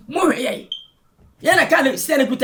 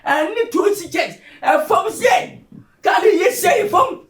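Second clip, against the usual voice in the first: raised voice, climbing in pitch; insistent shout; 3 semitones higher, slower than usual. Acted. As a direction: shout each phrase as a demand. Heated quarrel, shouted demand.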